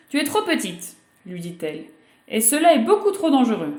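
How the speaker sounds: a mother saying no, gently firm. Acted. Mother refusing her little girl, lightly voiced firm.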